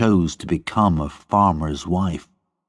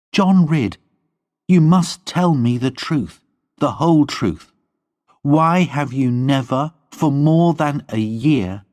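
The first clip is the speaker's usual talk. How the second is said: put-on higher, pleading young woman; Lorna's voice; 7 semitones higher than usual. A narrator's reading. Lorna pleading with John, higher young woman's voice. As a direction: plead with him as Lorna, voice lifted.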